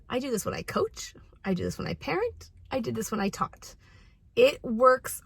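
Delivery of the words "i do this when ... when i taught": soft, hushed and calm; lowered calm voice. Shown as a demonstration. Coach telling parents she does this herself, quiet and calm. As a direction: bring the volume down, stay composed. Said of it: "Always lower your voice and speak calmly".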